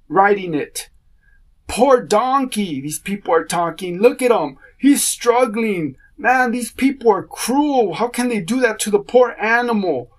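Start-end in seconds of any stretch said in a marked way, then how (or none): 1.7-2.8 pitying onlooker. Retold or imitated. 4.0-10.1 pitying onlooker. Retold or imitated.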